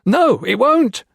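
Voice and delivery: high, loud manic cackle through words; insane laugh. A narrator's reading. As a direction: laugh it out like a madman. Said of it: "Colonel Foster laughed insanely".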